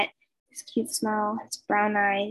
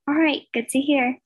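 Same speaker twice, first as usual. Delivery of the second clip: happily; 4 semitones higher, 3 dB louder than usual. Acted. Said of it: "he said happily".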